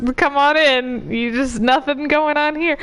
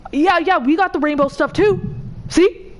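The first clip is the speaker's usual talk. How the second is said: higher, bright-eyed corporate boasting, proud of the bare minimum; mock corporate voice; 6 semitones higher than usual. Streamer mocking corporations to a friend, smug corporate voice. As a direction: parody a company showing off its token effort. Mocking companies with rainbow logos.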